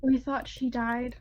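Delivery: slow, halting, monotone reply; dissociated character. Acted. Character explaining a lost relative when asked, halting monotone. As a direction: answer haltingly, with long empty gaps. Plays shaken character answering questions.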